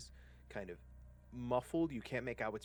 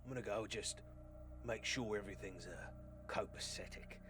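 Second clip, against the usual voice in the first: lightly voiced accented sellsword; casual word to a companion; guide to his partner; 3 dB louder than usual. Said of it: "He goes".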